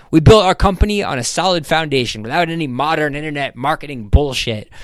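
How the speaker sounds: high, loud, punchy list of perks; boastful businessman. Acted. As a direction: hold forth like a proud boss. Voices Ham boasting of his company.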